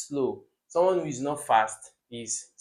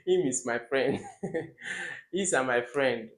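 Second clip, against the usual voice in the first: laughing through a mock child's wrong sentence; imitating children, laughing. Teacher mimics how local children talk, laughing. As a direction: lightly mimic local children's grammar while chuckling. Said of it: "Some children actually talk like this".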